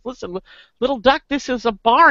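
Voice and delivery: a hint of a bartender losing patience; exasperated bartender. Bartender correcting the little duck in a joke, mildly exasperated. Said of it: "And he goes".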